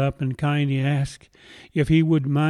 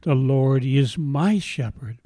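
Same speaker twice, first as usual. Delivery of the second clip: from the heart. Real, not acted. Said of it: "from my heart to yours".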